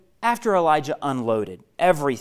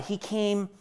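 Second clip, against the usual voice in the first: dropping to a whisper; 8 dB quieter than usual. Shown as a demonstration. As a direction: fade almost to nothing on whisper. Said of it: "Where was God?".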